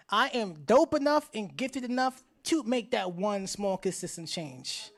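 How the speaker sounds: slow, measured call to repeat; deliberate pledge for an audience to echo; leading a pledge. Real, not acted. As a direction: lead the crowd phrase by phrase. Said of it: "repeat after me one time".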